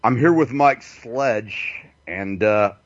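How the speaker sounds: lightly mimicked host with bebop stammer; Bob Tuskin. Guest mimics a show host going to break, bebop stammer. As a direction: stall on little bup sounds before finishing. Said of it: "bebop thing he did".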